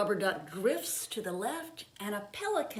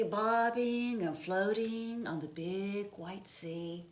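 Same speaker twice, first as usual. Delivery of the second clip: put-on gentle read-aloud pace for children; storybook reading; 2 semitones higher than usual. A narrator's reading. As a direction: read it like a picture book at bedtime. Reading picture book aloud.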